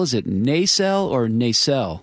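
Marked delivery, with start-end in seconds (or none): 0.3-1.1 nacelle with the first syllable stressed. Shown as a demonstration. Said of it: "is there emphasis on the first syllable". 1.3-2.0 nacelle with the second syllable stressed. Shown as a demonstration. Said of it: "is there emphasis on the first syllable".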